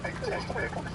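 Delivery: put-on soft, high Norwegian-accented catchphrase; quiet Norwegian lilt; mock Norwegian catchphrase. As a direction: quote it in a fake Norwegian accent. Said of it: "that became the catchphrase".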